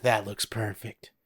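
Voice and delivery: lightly imitated director, slowing on the order; hint of a deadpan, drawn-out director impression; Stanley Kubrick. Director ordering actors to repeat a perfect take, lightly imitated. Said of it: "That's probably what he sounded like".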